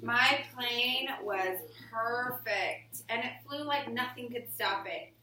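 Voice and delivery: slow, expressive storybook reading; reading to children. Acted. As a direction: read it to the class like a picture book. Reading picture book aloud.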